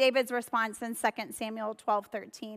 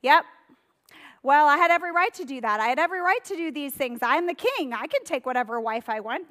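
fast, slightly louder, smug self-justifying; hammed-up defiant bragging; mock defensive; 3 semitones higher, 4 dB louder, faster than usual. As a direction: rattle off excuses like an entitled king. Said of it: "look back and go".

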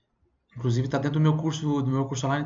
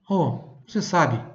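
casual Brazilian question; slower than usual. Retold or imitated. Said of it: "Em português eu vou falar".

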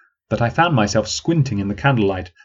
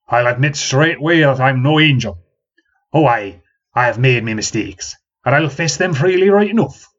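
put-on rising, louder confession in a broad country accent; old man admitting his mistakes, country accent; old man's accent; 3 semitones higher, 4 dB louder than usual. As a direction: own up boldly in an old rustic accent. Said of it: "that distinctive accent".

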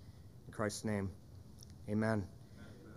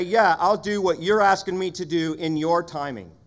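God's hoped-for answer; 4 semitones higher, 7 dB louder than usual. Retold or imitated. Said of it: "I wanted God to say".

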